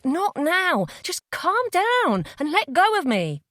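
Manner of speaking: desperate pleading shout. Acted. Jay pleading while struggling.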